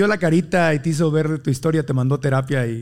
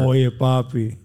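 a light mock Colombian accent, lower voice; 3 semitones lower, much slower than usual. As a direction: playfully imitate a Colombian girl with a hint of her accent. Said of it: "A ver, el acento colombiano".

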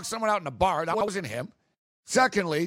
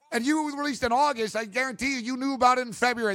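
higher indignant accusation; 5 semitones higher than usual. Real, not acted. Host calling out the Chiefs, indignant rant. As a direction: call out their lie.

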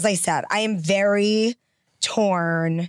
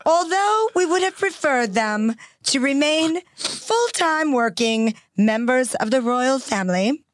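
measured royal British reading, phrase by phrase; the Queen's cadence; 3 semitones higher than usual. Shown as a demonstration. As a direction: imitate the Queen's very specific cadence. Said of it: "she speaks in a very specific cadence".

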